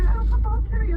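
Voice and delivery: very high, hammed-up British voice; caricatured British chirp; mock British accent. Mimics a fake Briton.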